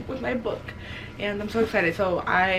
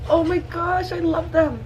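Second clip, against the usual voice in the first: high, loud excited squeal of love; gushing fangirl; 7 semitones higher, 5 dB louder, slower than usual. Real, not acted. Reader swooning over the book couple, loud and high. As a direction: burst out adoring the couple.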